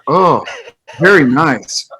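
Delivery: lightly put-on English accent, pleased. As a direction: imitate an Englishman enjoying a massage. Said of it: "But with an English accent".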